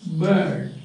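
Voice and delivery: "bird" with no R sound; silent R. Shown as a demonstration. Teacher showing students R is not there, silent R. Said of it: "No R, R is not there".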